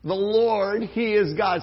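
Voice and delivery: loud, ringing declaration; shouted proclamation. Shown as a demonstration. Preacher voicing the crowd, loud shout. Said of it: "Say it with me".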